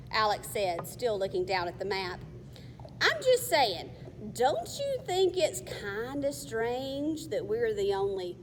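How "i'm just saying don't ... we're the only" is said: worried. Acted. Boy worried before trap.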